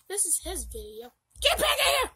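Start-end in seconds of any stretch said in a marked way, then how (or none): 1.4-2.1 high, loud call; real loud shout, much higher. Real, not acted. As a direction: yell them back into the room. Calling owner back.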